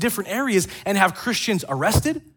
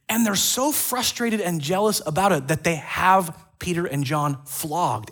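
usual speaking voice

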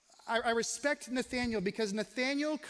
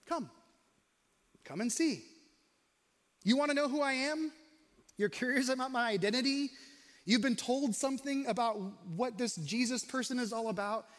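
gentle invitation. Retold or imitated. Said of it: "He simply says to them".

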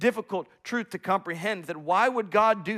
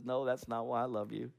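fond father; 4 semitones lower, 8 dB quieter than usual. Acted. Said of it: "the dad laughs and says".

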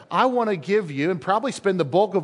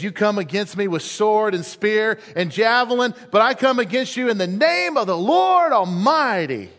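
David's bold reply. Acted. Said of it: "He says".

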